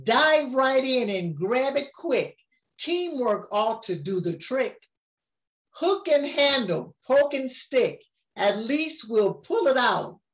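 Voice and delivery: sing-song storybook reading; rhyming lines read aloud to a grandchild; reading to a child. A narrator's reading. Grandma reads the picture book to her grandchild, sing-song.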